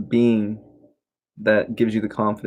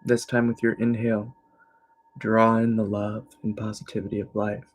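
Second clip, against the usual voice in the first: guided meditation; 2 semitones higher than usual. Real, not acted. Teacher guiding listeners into evening relaxation, calm meditation voice. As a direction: ease them gently into stillness.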